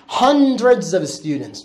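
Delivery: hundreds of students said very slowly; slow English model. Shown as a demonstration. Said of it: "الان برو". (انگلیسی را خیلی آرام برای کلاس بخوان)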